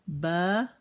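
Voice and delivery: "Ba-na-na" broken into three separate beats; split syllables. Shown as a demonstration. Teacher to kids, syllables split apart. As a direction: clap out "Ba-na-na" one syllable at a time. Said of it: "Ba-na-na".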